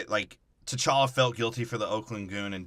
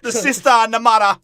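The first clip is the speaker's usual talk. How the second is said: mock high voice; 10 semitones higher, 11 dB louder than usual. Correcting, staying in voice.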